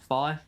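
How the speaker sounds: "Phi" said as F plus long I; "Phi" to rhyme with "pie"; Phi sounded out. Shown as a demonstration. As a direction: say "Phi" as "fie", demonstrating the sound. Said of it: "So I go F and I".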